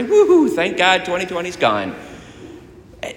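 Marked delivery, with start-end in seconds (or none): 0.0-1.9 mock New Year's celebration, pitched way up; celebratory cheer. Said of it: "turn our calendars on January first and say".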